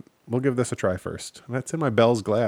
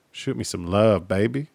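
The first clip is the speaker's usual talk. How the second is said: sultry plea. Acted. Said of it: "I won't even talk like that again".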